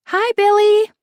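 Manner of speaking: high, loud excited greeting; calling out. A narrator's reading. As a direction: call out across the yard.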